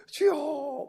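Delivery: half-sobbed mock cry to the Lord; mock cry of lament. Pastor mimics his despairing cry to God, half-sobbing. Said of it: "막 그랬단 말이죠".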